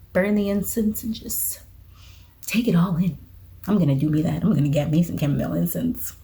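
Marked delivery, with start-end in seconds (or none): 0.1-3.2 whisper. Acted. Dreamy incense description.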